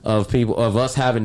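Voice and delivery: laughing through the words; quick words broken by laughter. Real, not acted. Retelling what she almost said.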